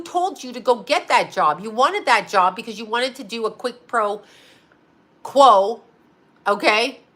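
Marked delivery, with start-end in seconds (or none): 1.6-5.8 "pro quo" said wrong as her own habit; "quick pro quo" in her own wrong way; mispronounced. Real, not acted. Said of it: "I'm saying it wrong again".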